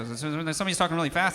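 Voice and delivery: quickened, pressed delivery; fast-talk demo. Shown as a demonstration. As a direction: speed up to show talking fast. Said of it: "talking like this".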